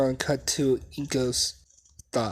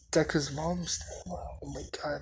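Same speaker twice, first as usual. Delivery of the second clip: whispered to herself, unvoiced; embarrassed whisper; 3 semitones higher, 8 dB quieter than usual. Real, not acted. Narrator scolding herself for forgetting, whispered. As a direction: breathe it out in a self-conscious whisper.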